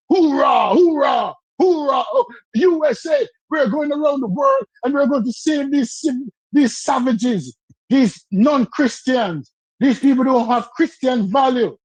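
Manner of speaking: mock a flag-waving Marine, slowing into deliberate phrases. Debater mocking freedom-spreading troops, half-acted gung-ho Marine. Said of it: "like you're in the Marine".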